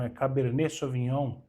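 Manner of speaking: "Cabernet Sauvignon" with a silent t, softly; right pronunciation. Shown as a demonstration. Teacher giving the correct French "Cabernet Sauvignon". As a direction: drop the t: "cabernê soviniôn".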